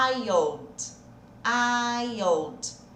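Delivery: put-on iod said as the glide in child; sound demo. Shown as a demonstration. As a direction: model the sound iod twice. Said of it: "E aqui, ó". (demonstração do som iod)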